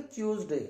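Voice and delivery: ट्यूसडे said chooz-day; British-style ट्यूसडे, T becomes CH; correct British pronunciation. Shown as a demonstration. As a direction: open ट्यूसडे with a CH sound. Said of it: "उसे सही बोलेंगे".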